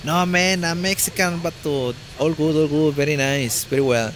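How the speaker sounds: hammed-up Mexican-accented English; goofing around in Mexican-accented English; exaggerated Mexican accent. Shown as a demonstration. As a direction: play up a thick Mexican accent for laughs. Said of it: "a mamonear con mi acento".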